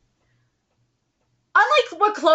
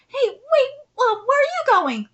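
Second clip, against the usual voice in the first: higher, louder startled call; calling after someone; 10 semitones higher, 6 dB louder than usual. Acted. Aunt calls after the child walking off, alarmed call. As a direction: blurt it out to stop someone leaving.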